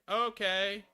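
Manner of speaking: high, loud chirpy okay; hammed-up cheerful agreement; mock eager okay. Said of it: "they're like".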